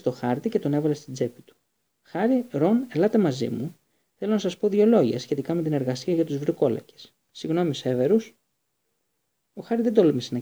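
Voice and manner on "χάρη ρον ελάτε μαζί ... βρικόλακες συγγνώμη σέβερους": higher, louder cheerful call; a touch of breezy cheer; Lupin, brisk cheer. Acted. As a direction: sweep the boys out briskly. Lupin cheerfully whisking boys away.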